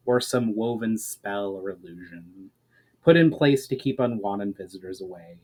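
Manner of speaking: dramatic audiobook reading voice; fantasy novel narration, measured and dramatic; story narration. A narrator's reading. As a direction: read the chapter aloud with a storyteller's weight.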